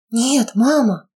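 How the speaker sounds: high tearful refusal; anguished protest. Acted. Daughter refusing to leave her mother, tearful. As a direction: refuse through tears.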